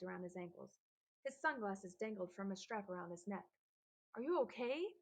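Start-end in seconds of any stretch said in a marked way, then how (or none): 4.1-5.0 raised, higher call over splashing; worried yell. A narrator's reading. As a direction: shout with concern. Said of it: "Benjamin yelled over the splashing".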